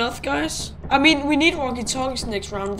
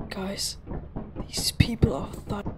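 whispering; 3 semitones lower, 8 dB quieter than usual. Real, not acted. Warning friends about strangers.

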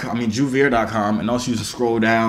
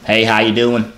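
put-on country accent. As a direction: lay on a folksy country accent. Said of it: "right now I reside in Tennessee".

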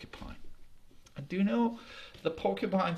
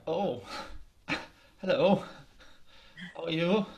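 nervous laughing greeting. Acted. Nervous deer greets the tigers.

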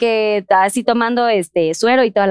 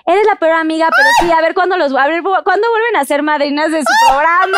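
higher-pitched, mock indignant commenter; mock angry reproach; 4 semitones higher than usual. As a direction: read it as an exaggerated online telling-off. Lee comentarios de reclamo. (reclamo indignado fingido)

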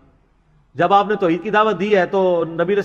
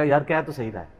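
lower, softer mock admission, head hung; imitating an ashamed man; 7 semitones lower, 7 dB quieter than usual. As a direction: play someone sheepishly conceding. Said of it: "آپ کا سر شرمندگی سے جھک جائے گا". (شرمندہ ہو کر دھیمی آواز میں)

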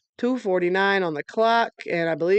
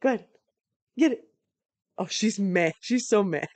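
usual speaking voice

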